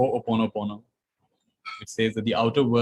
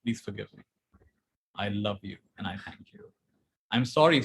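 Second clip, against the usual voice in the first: soft prayer; 2 semitones lower, 3 dB quieter than usual. Shown as a demonstration. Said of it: "You say things like".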